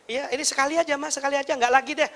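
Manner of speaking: lightly voiced wheedling kid; pleading child. Child promises mum this is the last time, mock pleading. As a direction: beg as a child promising just once.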